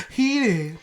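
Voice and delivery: high-pitched, worked-up single word; getting heated. Real, not acted. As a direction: let the rising heat lift your pitch. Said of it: "I can feel myself getting heated now".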